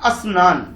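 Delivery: स्नान said with an extra अ in front, as अस्नान; wrong asnan. Shown as a demonstration. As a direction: prefix a short अ to स्नान. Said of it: "गलत करके स्नान ना बोल के".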